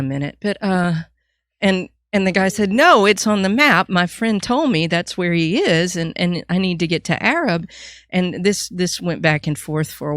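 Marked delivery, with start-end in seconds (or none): 2.7-7.7 mildly exasperated, louder at the start; insistent customer. Retold or imitated. Traveler arguing with gas station clerk, insistent. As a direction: insist as a lost traveler would.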